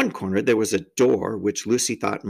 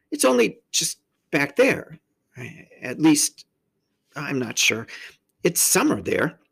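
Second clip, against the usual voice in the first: put-on earnest girl; 5 semitones higher than usual. A narrator's reading.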